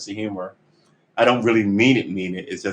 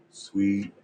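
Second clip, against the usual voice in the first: slow, drawn-out "Sweet Jeebus"; exasperated; 5 dB quieter, much slower than usual. Real, not acted. Fed up after another failed attempt, slow and exasperated. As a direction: stretch it out in weary exasperation.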